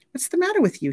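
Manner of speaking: high, scolding question; a hint of a scolding woman; Raven asking. A narrator's reading. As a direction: voice Raven's sharp high query. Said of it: "she asked Wahoo".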